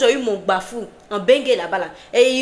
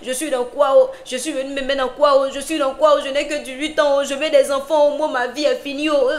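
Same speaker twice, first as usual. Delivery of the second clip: mock wailing lament; 4 semitones higher, 3 dB louder than usual. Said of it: "La fille a commencé à pleurer".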